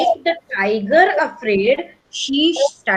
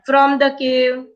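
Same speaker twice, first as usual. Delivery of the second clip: slow, careful phrase; measured teacher's dictation; read-after-me model. Shown as a demonstration. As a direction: say it slowly for repeating. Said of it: "Read after me".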